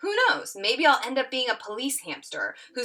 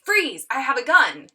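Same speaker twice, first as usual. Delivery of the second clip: acted stickup line; 4 semitones higher, 8 dB louder than usual. Acting out improv scene line.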